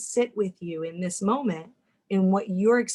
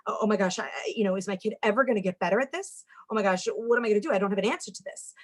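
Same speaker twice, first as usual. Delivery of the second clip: fast, rattled worried parent; a parent's mild mock panic, tumbling out; panicky inner thoughts; faster than usual. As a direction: rush through the spiralling worries.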